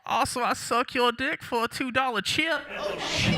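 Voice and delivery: high, loud, fast street hustler voice; a wild crackhead pitching blackjack tips, way up high; hammed-up crackhead. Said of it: "crackhead giving advice".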